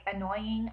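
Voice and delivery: slow, testing "annoying"; unsure pronunciation. Shown as a demonstration. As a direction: sound out "annoying" slowly to check it. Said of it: "if I say it right".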